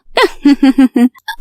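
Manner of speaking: short villain's chuckle; gloating laugh. Acted. Kavya gloats that her rival cannot compete, smug laugh. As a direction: chuckle smugly over the plot.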